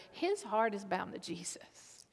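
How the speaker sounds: breathy hushed whisper on the heart. Real, not acted. Preacher whispering to the congregation about Peter's heart. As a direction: lean in and whisper it. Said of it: "preacher drops to whisper".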